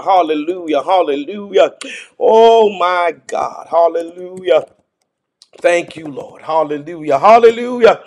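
rising, ringing praise with hallelujahs; fervent praise preaching. Acted. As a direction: lift the congregation into worship. Praise and worship exhortation.

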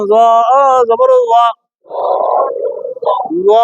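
"জ" heavy, from the tip of the tongue; thick tongue-tip sound. Shown as a demonstration. Teacher drills the spelling, thick tongue-tip "জ". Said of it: "জিহ্বার আগা থেকে মোটা ভাবে".

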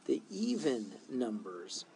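usual speaking voice

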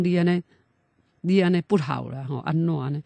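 loudly reproach, mildly acted; retold loud crying-out. Parent calling to the dead son over the coffin, retold loud lament. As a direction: imitate a parent calling out in grief. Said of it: "大声甲叫啊！".

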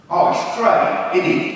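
Cockney "innit" delivery; strong Cockney accent. Retold or imitated. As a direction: imitate a London kid, broad Cockney. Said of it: "in a strong Cockney accent".

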